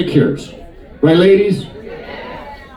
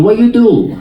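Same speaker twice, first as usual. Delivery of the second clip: put-on higher nail lady voice, Chinese accent; put-on Chinese accent, pitched up; imitated Chinese accent; 4 semitones higher than usual. Nail lady asking client's job, imitated Chinese accent. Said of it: "That's her accent".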